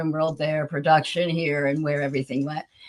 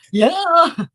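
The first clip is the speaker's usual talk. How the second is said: much higher, breathless disbelief; stunned yes; 10 semitones higher, slower than usual. Retold or imitated. Accepting Michael's tour offer, much higher in stunned excitement. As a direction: gasp out a yes you can't believe.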